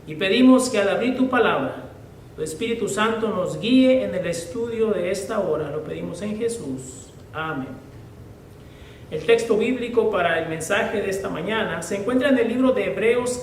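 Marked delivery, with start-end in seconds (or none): 0.1-7.7 reverent, measured opening prayer. Acted. Preacher praying before the sermon, reverent. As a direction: pray over the congregation before the study.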